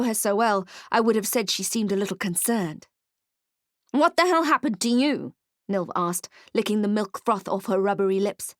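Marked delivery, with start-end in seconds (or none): 3.9-5.3 a brash goblin asking. Acted. Goblin Nilv asks, startled.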